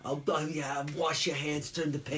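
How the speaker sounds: mildly nervous nebbish city voice; Woody Allen. Retold or imitated. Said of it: "He was doing Woody Allen".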